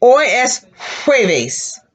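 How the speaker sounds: jueves with a puff of air on the J, slowly; slow hoy es jueves with airy J; slow, breathy J in jueves. Shown as a demonstration. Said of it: "Fill the air".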